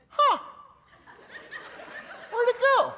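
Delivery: high, baffled "where'd it go"; confused preacher. Retold or imitated. Guest preacher searching his Bible, high baffled voice. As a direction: play the drugged speaker lost in his Bible. Dazed guest speaker loses text.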